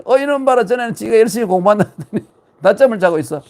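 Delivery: high, loud amused teacher catching a napper; caught-you exclamation. Acted. Confucius finds his disciple napping, high and amused. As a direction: tsk at the sleeping student.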